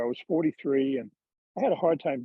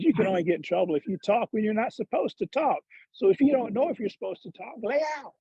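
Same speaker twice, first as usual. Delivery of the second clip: high-pitched Georgia hick, climbing higher to the punchline; Charlie Reimer's hick accent; 7 semitones higher than usual. Retold or imitated. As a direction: imitate a hick trainer's emphatic warning. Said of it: "he's got this hick accent".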